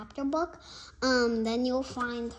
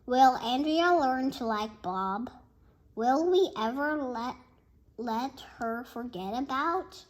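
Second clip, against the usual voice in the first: teaser narration. A narrator's reading. Book trailer teaser questions.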